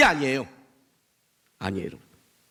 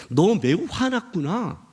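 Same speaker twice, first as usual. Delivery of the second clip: gentle; 2 semitones higher, slower than usual. Acted. God answers angry Jonah, gentle and slow. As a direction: draw it out tenderly. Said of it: "아주 부드럽게 하는 표현이에요".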